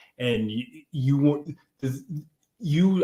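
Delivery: tripping over words, restarting. Talking to a listener about showing up for your business, stammering. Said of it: "I'm stammering".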